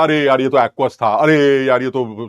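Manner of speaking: drawn-out groan of sudden realisation; hammed-up "oh no" regret, stretched out; mock dismay. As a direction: act out kicking yourself over a slip. Acted regret at careless mistake.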